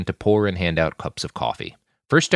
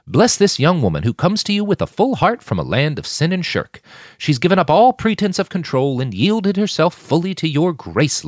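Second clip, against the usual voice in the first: higher, louder preacher's blessing; fervent prayer; 7 semitones higher, 4 dB louder than usual. Acted. Saul blessing Sasha at the table, fervent prayer. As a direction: pray over her with fervour.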